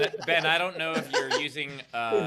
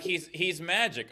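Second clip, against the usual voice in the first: put-on slow, wide-eyed kid voice; awed kid voice; 5 semitones higher, slower than usual. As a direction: say it slowly, like a kid in awe. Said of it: "Be like".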